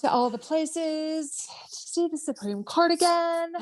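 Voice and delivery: laughing. Real, not acted. Gushing about White House trips.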